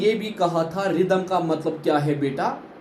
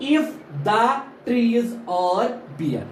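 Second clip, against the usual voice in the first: "If the trees are bare" slowly, beat by beat; measured verse beats, falling on "bare"; stressed-unstressed rhythm; 3 semitones higher, much slower than usual. Shown as a demonstration. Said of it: "combination of stressed and unstressed syllable".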